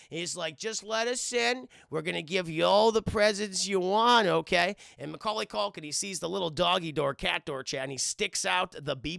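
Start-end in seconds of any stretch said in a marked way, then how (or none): 0.6-4.8 coaxing burglar. Retold or imitated. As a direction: wheedle the kid to open the door. Burglar coaxing kid to open up.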